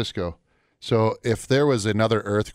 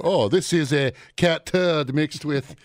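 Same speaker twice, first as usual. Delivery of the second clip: snooty waiter; 5 semitones higher, slower than usual. Retold or imitated. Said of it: "do they have".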